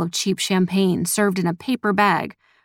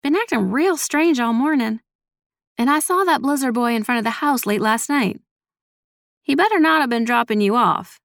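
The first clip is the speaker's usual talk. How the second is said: higher-pitched, lightly voiced suspicious grandmother; probing grandmother; 5 semitones higher than usual. A narrator's reading. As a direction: question her with a touch of suspicion.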